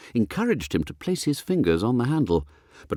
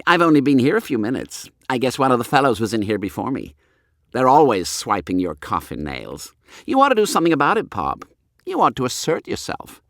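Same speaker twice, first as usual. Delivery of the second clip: voiced boy; 4 semitones higher, 3 dB louder than usual. Smug boy talks back.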